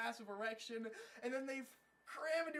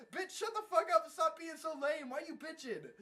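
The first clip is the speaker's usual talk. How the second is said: loud, raised retold scolding; mock angry rebuke; 6 semitones higher, 6 dB louder than usual. Team answers the whining girl, mock angry rebuke. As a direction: tell her off in exaggerated exasperation.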